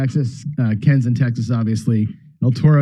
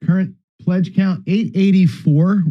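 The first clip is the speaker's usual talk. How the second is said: slow, drawn-out announcement of the total; mock game-show reveal, slowed down; dramatic reveal; 4 semitones higher, slower than usual. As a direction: hold each word like a drumroll payoff. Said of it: "And drum roll, please".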